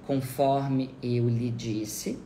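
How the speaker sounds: "conforme eu lhe disse" drawn out slowly; slow, measured model phrase; deliberate repetition. Shown as a demonstration. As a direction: spell out the phrase at half speed. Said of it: "Repita essa expressão inicial".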